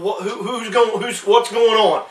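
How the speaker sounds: a beggar straining to learn who passes; curious blind beggar. Acted. Preacher voicing blind Bartimaeus, calling out curious.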